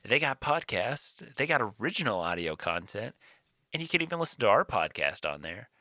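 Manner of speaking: quick, breezy podcast ad read; sponsor ad read. Acted. Podcast host reading the Audible sponsor spot, fast ad read. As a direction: rattle off the sponsor plug fast.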